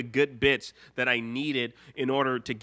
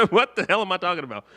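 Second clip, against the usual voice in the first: laughing; 4 semitones higher, 6 dB louder, much faster than usual. Real, not acted. Laughs at own skit.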